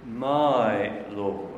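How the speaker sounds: "my" held long, "Lord" dropping after it; stress on my. Retold or imitated. Preacher quoting a scholar's testimony, stressing "my". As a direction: put deliberate weight on "my", then let "Lord" fall. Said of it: "that little word "my" was very important".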